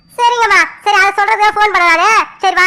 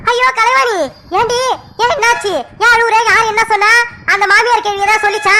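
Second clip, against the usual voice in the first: higher-pitched flustered questioning; alarmed concern; 3 semitones higher than usual. Acted. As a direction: fuss anxiously over a crying niece. Aunt alarmed at niece crying.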